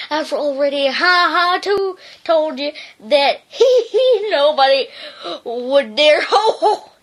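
words broken by chuckles; dog denying he laughs, laughing. Acted. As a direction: try to deny it while laughing. Narrator breaking into laughter.

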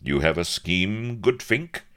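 aquiver with eagerness; excited cry. A narrator's reading. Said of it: "cried Avery, aquiver".

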